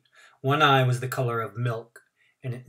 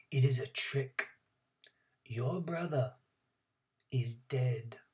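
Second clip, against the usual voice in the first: barely audible; 8 dB quieter, slower than usual. A narrator's reading. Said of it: "we had to strain to hear him".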